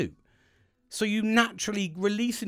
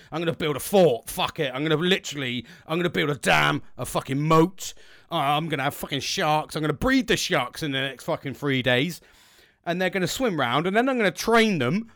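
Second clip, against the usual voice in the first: louder and louder, boastful mock bravado; hyped-up bragging; 2 semitones lower, 4 dB louder than usual. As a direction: brag like you'll build a fortress with sharks. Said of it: "you've said to your colleagues".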